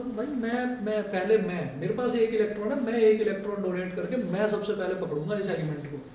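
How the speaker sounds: playfully voiced impatient element; eager, impatient. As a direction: push in first, insisting on your turn. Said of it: "बेताब". (उतावलेपन का हल्का अभिनय)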